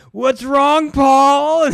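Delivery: mock clown taunt, loud and high; high, loud creepy clown voice. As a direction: play the masked clown teasing. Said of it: "and he goes".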